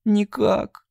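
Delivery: high, tearful wail; on the verge of sobbing. Acted. Abby repeating the word through sobs. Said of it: "голосом, в котором слышались рыдания".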